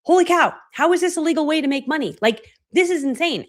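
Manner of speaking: high, loud amazed exclamation; excited disbelief. Retold or imitated. Telling the audience her first reaction to earning money, thrilled. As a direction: gush in giddy disbelief. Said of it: "And I'm like".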